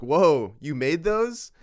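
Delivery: put-on loud, high childlike whoa, you made those; amazed question. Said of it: "an actual question".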